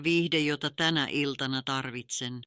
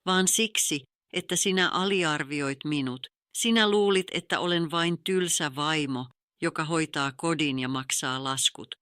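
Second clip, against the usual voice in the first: a hint of cold steel; understated steely resolve to her husband. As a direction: lay it out firmly, a touch of ice. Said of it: "nyt äänessäni on terästä".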